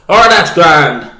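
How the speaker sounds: slow, loud mock Irish accent. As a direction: draw out "grand" in a hammed-up Irish accent. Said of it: "He was Irish".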